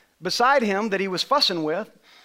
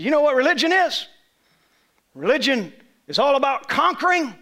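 raised retold rant; 5 semitones higher, 3 dB louder than usual. Retelling man's rant on religion.

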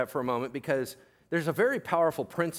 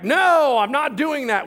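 loud, high protest as Peter; defiant refusal; 8 semitones higher, 8 dB louder, slower than usual. Acted. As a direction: refuse outright, voice jumping up. Voicing Peter refusing God's command.

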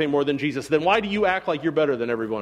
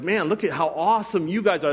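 sarcastic. Retold or imitated. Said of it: "He's be-, being sarcastic".

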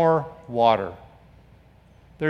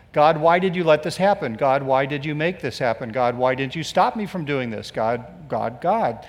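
imitating whining prayer fading to quiet; 3 semitones lower than usual. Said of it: "that tendency is to blame God".

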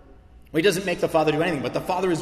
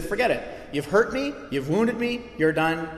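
mock wounded outburst, higher and louder; hurt refusal; 5 semitones higher, 3 dB louder than usual. Imagined churchgoer refusing the prodigal, mock wounded outburst. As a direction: play the hurt one cutting ties. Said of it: "We would have said".

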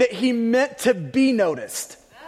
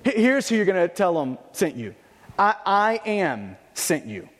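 voice of God; 3 semitones lower than usual. Retold or imitated. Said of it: "how God responds".

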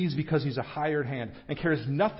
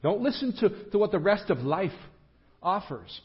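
higher-pitched appeal; pleading; 4 semitones higher than usual. Retold or imitated. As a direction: urge them not to listen. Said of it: "He's pleading with the disciples".

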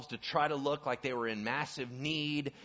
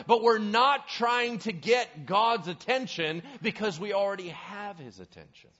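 loud, higher-pitched, passionate preaching; full-force preaching; 6 semitones higher, 8 dB louder than usual. Acted. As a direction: preach it hard to the room.

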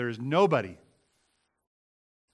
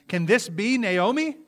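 high, slow, loud exclaiming; 8 semitones higher, 6 dB louder, slower than usual. Acted. Town women greeting Naomi, exclaiming loudly. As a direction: let the women's surprise ring out. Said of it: "The local women exclaimed".

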